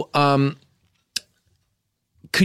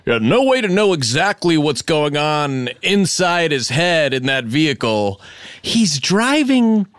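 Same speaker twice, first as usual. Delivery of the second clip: mild live news commentary, a bit raised; car chase reporter; 3 semitones higher than usual. Acted. Host spoofs a live car chase news report for the sketch. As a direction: narrate the chase like a TV reporter on air. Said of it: "something I noticed they really say on car chases".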